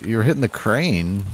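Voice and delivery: loud laughing yell; scream into giggles. Real, not acted. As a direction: burst out laughing, then shout it. Friend's shots keep hitting the crane.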